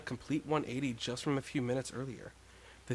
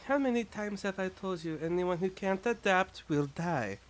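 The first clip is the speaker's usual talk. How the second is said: raised, slow warning tone; stern character voice; 6 semitones higher than usual. Acted. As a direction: scold them with a slow warning. Stern character lines in game.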